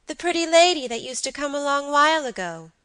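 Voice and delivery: put-on high, loud child's voice; little boy. A narrator's reading. Boy reminds them of a visitor, high childish voice. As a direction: explain like an insistent small boy.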